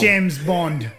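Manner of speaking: badly faked British accent; mock British spy introduction; hammy British English. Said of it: "That's a bad accent".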